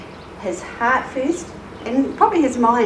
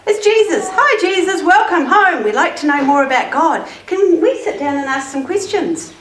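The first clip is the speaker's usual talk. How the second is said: excited greeting; 5 semitones higher, 3 dB louder than usual. Acted. Neighbours greet Jesus at door.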